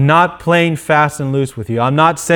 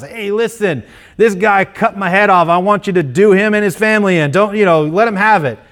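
slightly higher, quick offhand griping to God; a martyr grumbling to God about his killer, higher and quicker, half-joking; casual mock complaint; 4 semitones higher than usual. Martyr casually complaining to God, lightly higher.

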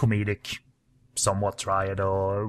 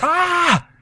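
high, loud mock scream, stretched out; acting out a comic scream of discovery; imitated scream; 11 semitones higher, 5 dB louder, much slower than usual. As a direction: cry it out slowly like a hammed-up shriek. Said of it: "and he screams".

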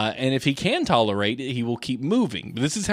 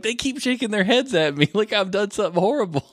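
imitating dad; 9 semitones higher than usual. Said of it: "he's like".

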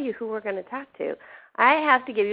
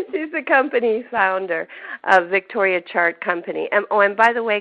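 missing front tooth. Real, not acted. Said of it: "my front tooth fell out".

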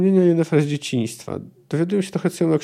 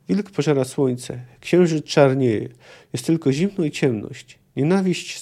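reading a novel aloud, steady and measured; measured literary reading; story narration. A narrator's reading. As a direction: tell it like an audiobook narrator. Reads prophetic quoted passage.

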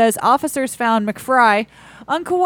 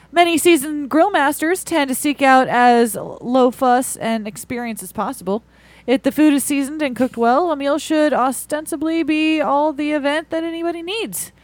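reading it like a stiff announcer; formal news read. Real, not acted. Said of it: "Why are you reading like this?".

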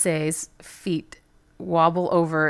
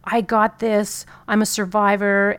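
survivor pep talk; 3 semitones higher than usual. Retold or imitated. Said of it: "now I'm in survivor mode".

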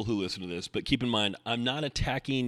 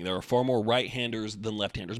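usual speaking voice

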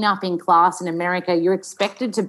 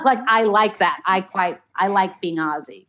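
put-on General American accent; easy chat in an American accent. Shown as a demonstration. Actor explaining her Aussie pride, American accent. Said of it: "we'd talk in an American accent".

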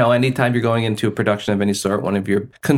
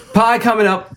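laughing; 12 semitones higher, 4 dB louder, slower than usual. Real, not acted. Laughing announcement.

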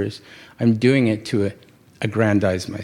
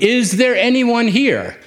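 louder impatient New Yorker calling out in an empty shop; rather loud; 10 semitones higher, 4 dB louder than usual. Retold or imitated. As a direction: call into the empty shop, demanding service. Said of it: "I said rather loudly".

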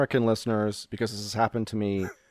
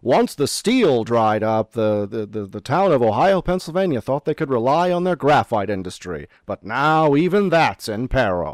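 sad newscaster; 5 dB louder than usual. Acted. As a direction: read it like grim local news. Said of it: "fade in, sad newscaster voice".

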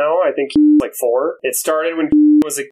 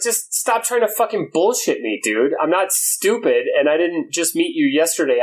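retold exasperated telling-off; 4 semitones higher than usual.

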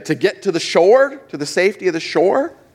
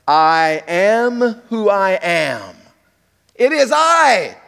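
voice of God; 4 semitones higher, slower than usual. Acted. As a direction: proclaim it solemnly. God's words voiced.

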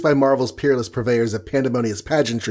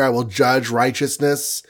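wrath speak. Retold or imitated. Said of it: "some really wrath speak going on here".

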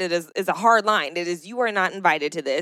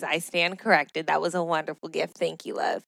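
soft apology; 5 dB quieter than usual. Real, not acted. Apologizing softly.

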